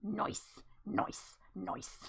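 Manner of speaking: soft, breathy whispered cheer; whispered nice. Real, not acted. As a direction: hush it to yourself. Quiet self-congratulation.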